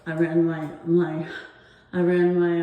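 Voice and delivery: breathless, words broken up; short of breath, gasping between words. Real, not acted. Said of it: "I'm out of breath here".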